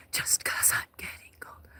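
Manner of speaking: soft unvoiced whisper; cold night whisper. Real, not acted. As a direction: murmur it under the breath.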